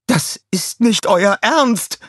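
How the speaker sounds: high, slow scornful villain voice; disbelieving villain. A narrator's reading. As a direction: scoff at the tiny army. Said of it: "sagte Scarlett".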